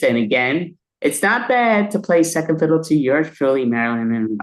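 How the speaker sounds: lightly voiced breathy-free film star persona, coy and self-admiring; Marilyn Monroe. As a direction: play a vain old Hollywood star charming her fans. Improv act as Marilyn Monroe.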